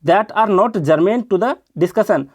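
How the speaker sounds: each word stretched out very slowly; very slow reading. Shown as a demonstration. Teacher reads the example sentence very slowly for students. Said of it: "example के लिए बोल रहा हूँ".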